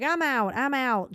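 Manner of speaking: loud, high mock huff; storming off in a huff; mock exit. Quoting Dina storming out, loud and high. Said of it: "she's like".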